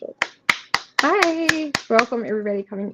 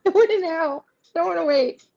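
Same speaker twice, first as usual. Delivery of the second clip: higher, laughing mock demand; laughing impatient queen; 11 semitones higher than usual. Reader voicing the Queen of Wands card, laughing mock impatience. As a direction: whine it through a laugh like a spoiled queen. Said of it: "Queen of Wands is like".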